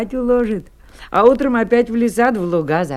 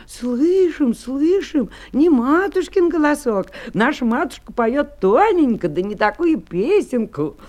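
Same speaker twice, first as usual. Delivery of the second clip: put-on slightly higher, childlike reply; lightly voiced little kids; 3 semitones higher than usual. Kids refusing the wolf at the door, lightly voiced children. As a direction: answer lightly as wary little goats.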